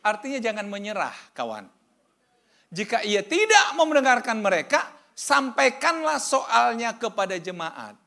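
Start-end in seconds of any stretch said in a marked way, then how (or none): 2.7-8.0 high, loud sermon cry to the congregation; preaching at full force. Acted. Preacher reads scripture loudly. (khotbah berapi-api, suara tinggi dan keras)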